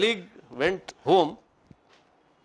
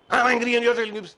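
mock angry wife; 8 semitones higher, faster than usual. Wife protests angrily.

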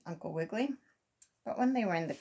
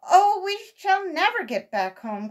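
high, slow, breathy wail; despairing cry; 12 semitones higher, 10 dB louder than usual. A narrator's reading. Squirrel boys fearing they can never get home, despairing. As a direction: wail with no hope left. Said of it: "cried Billy and Johnny Bushytail".

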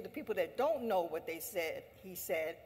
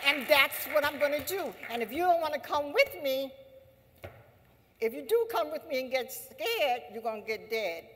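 defiant quote; 3 semitones higher, 4 dB louder than usual. Retold or imitated. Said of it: "They said".

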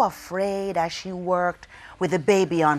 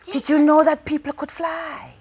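excited question; 6 semitones higher than usual. Acted. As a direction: ask it with wide-eyed wonder. Storyteller hooks the audience.

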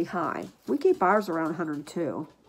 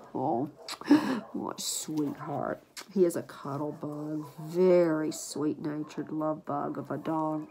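cooing; 3 semitones lower, slower than usual. Real, not acted. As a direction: gush gently at him. Cooing over puppy.

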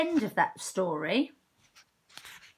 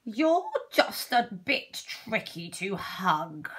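put-on kind old owl; slower than usual. Owl replies to hedgehog.

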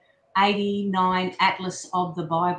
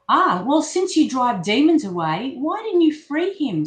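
urgent question; 2 semitones higher, 5 dB louder than usual. Acted. Disciple challenges Jesus.

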